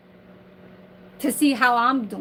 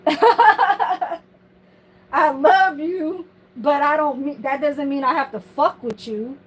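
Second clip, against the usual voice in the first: mock her line while cracking up; laughing mockery.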